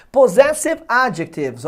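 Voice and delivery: Possessive adjectives slow and loud, stressing ZESS and AD; stressed syllables shown. Shown as a demonstration. Teacher marks strong syllables for students, stressed POSSESSIVE ADJECTIVES: po-ZESS-ive AD-jectives. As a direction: punch the second syllable of Possessive and the first of adjectives. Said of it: "Essa é a sílaba forte".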